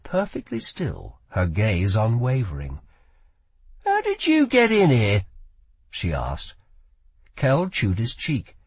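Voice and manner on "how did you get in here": put-on higher, sharp girl voice; young woman voice. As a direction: voice a wary young thief. Lila questions Kell.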